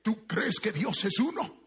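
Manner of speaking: ordinary delivery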